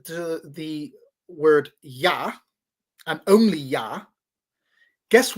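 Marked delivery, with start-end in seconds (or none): 0.0-2.3 "Yah" drawn out on its own; slow Yah. Shown as a demonstration. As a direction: say "Yah" slowly and deliberately. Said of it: "when we come to the".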